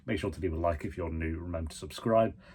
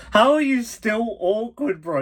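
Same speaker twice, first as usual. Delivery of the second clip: teasing; 14 semitones higher, 6 dB louder than usual. Real, not acted. Teasing a character on screen.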